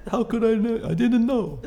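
a hammed-up old Jewish man telling a Disney story; old man Jewish accent. Guest imagines himself at eighty-two, exaggerated old Jewish accent. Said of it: "accent when I'm an old man".

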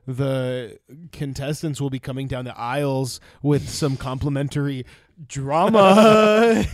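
lightly voiced flight attendant; hint of a cabin announcement. Mock in-flight announcement bit.

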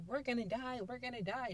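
high-pitched imitation of panicking men; mock panic. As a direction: act out a mild freak-out. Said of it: "freaking out because they're like".

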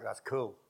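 "cool" with the oo moved forward toward ee; fronted vowel. Shown as a demonstration. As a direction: say "cool" with little lip rounding. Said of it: "elision of the vowel oo".

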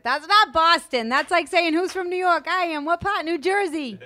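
high, loud, slow mocking put-down; mocking scoff. Sue mocking a suburb kid, loud high scoff.

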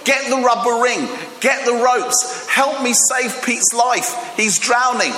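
imitated lifeguard cry across the water; mock rescue shout. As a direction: call urgently for help, hammed-up. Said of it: "he shouts to the disciples".

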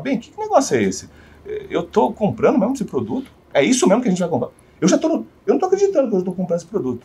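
retold incredulous questioning; mock disbelief. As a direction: imitate a client puzzled at himself. Acted client in disbelief to wife.

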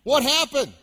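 high, loud "hey, what happened?"; surprised kids. Retold or imitated. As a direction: boys waking up puzzled, calling out. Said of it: "They wake up in the morning".

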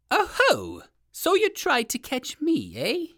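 high-pitched, taunting alligator voice; crowing at the one who hooked you; shouting alligator. A narrator's reading. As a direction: call out like a savage storybook alligator. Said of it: "the alligator shouted at Uncle Wiggily".

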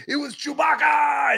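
high, loud exclamation; excited shout. Retold or imitated. Cab driver excitedly announcing his famous passenger, high shout.

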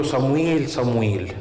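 lightly teasing hide-and-seek call; playful calling. Retold or imitated. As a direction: call the name teasingly, as if into an ear. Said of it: "زي ما يكون بيلعب معاه اللي بنسميه بالمصري استغماية". (نداء خفيف كأنه لعبة استغماية)

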